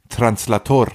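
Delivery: English word made to sound Spanish; mock Spanish accent on the word; fake Spanish. Bluffer faking a Spanish word, mock Spanish accent. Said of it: "dass es spanisch klingt".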